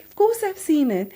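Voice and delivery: high, loud tearful reply; hammed-up weepy voice; mock bawling. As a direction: imitate blurting it out through tears. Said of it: "I'm bawling my eyes out".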